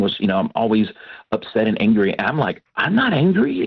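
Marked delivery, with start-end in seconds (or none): 2.8-3.7 indignant denial. Retold or imitated. Husband to wife who calls him angry, indignant high denial. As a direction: pitch jumps way up, insisting he's fine.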